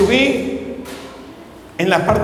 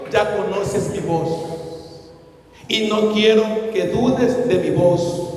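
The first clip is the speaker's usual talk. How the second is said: voice of Holy Spirit. Retold or imitated. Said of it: "el Espíritu Santo me dijo".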